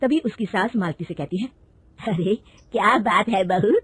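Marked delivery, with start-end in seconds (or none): 2.0-3.7 slow, lightly voiced mother-in-law, curious; an older woman questioning her daughter-in-law unhurriedly.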